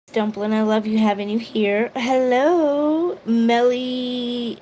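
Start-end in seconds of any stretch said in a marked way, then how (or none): 1.9-4.6 1 bright greeting. Real, not acted. Greeting a new viewer.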